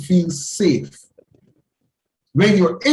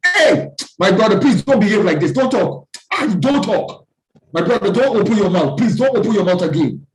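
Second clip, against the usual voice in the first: heated football argument; faster than usual. Acted. Nigerian fan warning a rival fan to shut up, heated mock anger. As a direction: bark at your mate as if ready to fight, all bluster.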